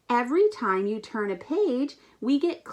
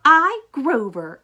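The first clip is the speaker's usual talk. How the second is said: grand announcement; 6 dB louder than usual. Acted. Grover announces himself grandly.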